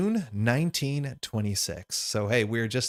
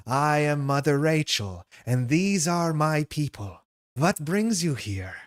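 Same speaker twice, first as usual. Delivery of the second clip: put-on slow, higher matriarch with a Germanic accent; Mother Rachel; 4 semitones higher, slower than usual. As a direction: draw the words out grandly in a put-on German accent.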